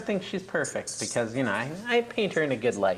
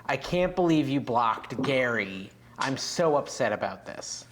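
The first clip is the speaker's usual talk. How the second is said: slow, low imitation of a disappointed mother; disappointed mom; 4 semitones lower than usual. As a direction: retell mom's message with measured disappointment. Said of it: "how disappointed she is in me".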